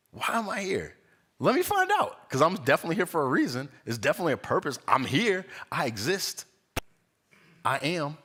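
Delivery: high-pitched, eager curiosity; excited wonder. Shown as a demonstration. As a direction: marvel at being here, keen to find out. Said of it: "more with a sense of wonder and curiosity and even excitement".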